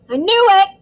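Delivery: high, loud triumphant cry; gleeful shout. A narrator's reading. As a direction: crow it with delight. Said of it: "Stan shouted gleefully".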